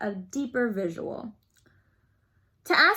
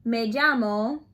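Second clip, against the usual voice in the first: slow model answer; slower than usual. Shown as a demonstration. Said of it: "And then you say to me".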